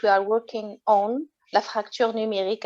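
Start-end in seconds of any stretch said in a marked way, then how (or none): 1.5-2.6 la fracture numérique said in native French; French pronunciation. Real, not acted. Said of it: "as we say in French".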